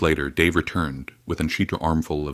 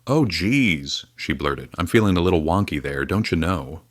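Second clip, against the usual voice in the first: put-on Minnesota accent. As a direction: blurt it out in Minnesota folksy style, quick on the wonky bit. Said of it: "Did you just develop a Minnesota accent?".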